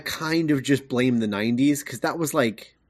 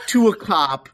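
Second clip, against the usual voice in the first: laughing; 8 semitones higher than usual. Real, not acted. Laughing through the list.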